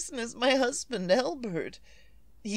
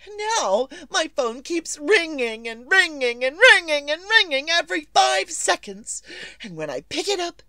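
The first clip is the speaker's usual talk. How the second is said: louder, rising indignant tirade; nervous invalid scolding the operator; angry complaint; 2 semitones higher, 4 dB louder than usual. Acted. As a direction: let the frustration spill out. Berating the telephone operator.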